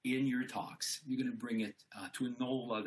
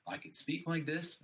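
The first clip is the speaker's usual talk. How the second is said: higher, open-chested voice; 7 semitones higher than usual. Shown as a demonstration. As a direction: stand tall and speak out. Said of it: "my voice gonna be affected".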